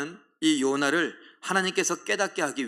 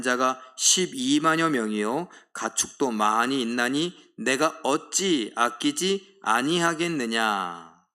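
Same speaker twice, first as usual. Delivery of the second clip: scripture reading; 2 semitones lower, 3 dB louder than usual. Shown as a demonstration. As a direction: read God's words deliberately. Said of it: "시작".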